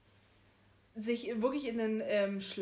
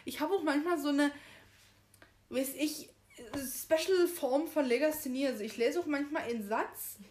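higher and louder, flustered and giggly; embarrassed laugh; 5 semitones higher, 4 dB louder than usual. Real, not acted. Explaining her reading mistakes to the co-host, flustered and laughing. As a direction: rattle off the excuse, laughing at herself.

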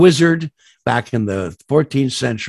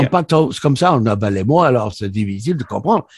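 fast Parisian French; faster than usual. Shown as a demonstration. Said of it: "a very fast Parisian French".

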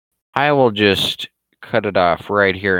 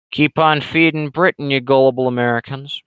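sarcastic jab; 5 semitones higher, 3 dB louder than usual. Real, not acted. Mocking jab at Americans.

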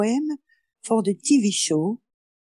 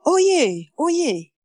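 town crier; 8 semitones higher than usual. Acted. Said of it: "dressed as a jester".

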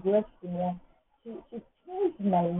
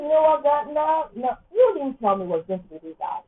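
dramatic complaint; 7 semitones higher, 4 dB louder than usual. Pretend. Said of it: "I was like".

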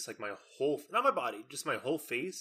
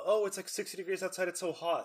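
mock cousin complaining; 7 semitones higher than usual. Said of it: "they're like".

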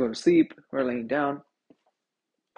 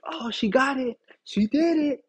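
higher-pitched, excited mock girlfriend; excited other personality; 7 semitones higher, 3 dB louder than usual. Girlfriend's alter ego cheering in third person, excited. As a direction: gleefully act out her alter ego.

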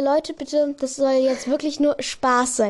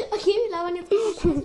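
laughing; 5 semitones higher, faster than usual. Real, not acted. Laughing fit.

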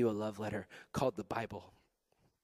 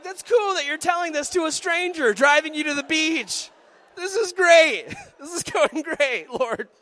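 sarcastic; 11 dB louder than usual. Retold or imitated. Sarcastic aside about scary passenger.

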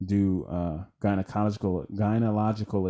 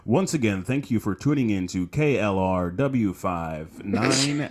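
slow radio announcer read; newscaster voice; slower than usual. Shown as a demonstration. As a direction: read it like a DJ signing off. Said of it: "your newscaster voice on this outro".

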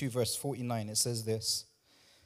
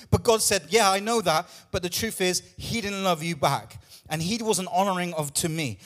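ordinary talk

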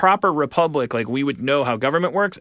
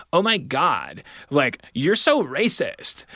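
put-on Valley Girl accent; 2 semitones higher, slower than usual. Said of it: "affected a female Valley Girl accent".

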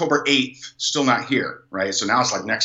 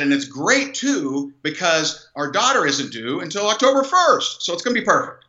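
upbeat excitement; 4 semitones higher than usual. Retold or imitated. Husband telling his wife the timing works, upbeat. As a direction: pitch climbing with enthusiasm.

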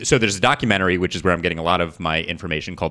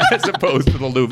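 put-on Boston accent; 6 semitones higher, 4 dB louder than usual. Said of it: "abysmal Boston accents".

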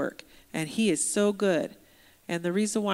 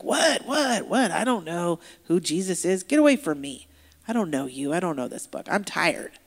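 fed up; 3 dB louder than usual. Retold or imitated. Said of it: "he was tired of so many of these guys".

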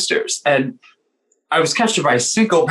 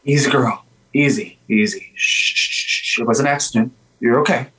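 soothing a horse; 4 semitones lower than usual. Acted. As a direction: gently shush and settle her. Calming a startled dewback.

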